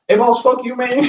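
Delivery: mock Mandarin accent. Friend imitating a boss in a heavy Mandarin accent. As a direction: fire off a joke insult in a thick Mandarin accent.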